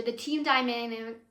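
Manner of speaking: stumbling over the words; stuttering. Real, not acted. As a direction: trip over the phrase. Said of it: "wow, I'm stuttering so much".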